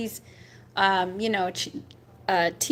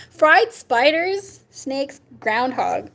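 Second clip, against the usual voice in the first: laughing disgust; 3 semitones higher, 4 dB louder, much slower than usual. Real, not acted. Reading gross foods, laughing.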